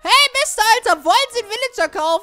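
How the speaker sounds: loud, high hail to a passer-by; calling out. Real, not acted. Shop owner hails a customer walking in, loud and high. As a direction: flag down a customer.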